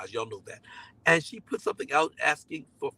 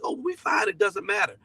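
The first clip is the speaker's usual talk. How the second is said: mock humble; 4 semitones higher than usual. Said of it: "we'll be humble and be like".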